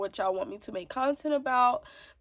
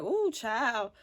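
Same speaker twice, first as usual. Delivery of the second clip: overwhelmed mom; 5 semitones higher than usual. Retold or imitated. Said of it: "crying because I'm like".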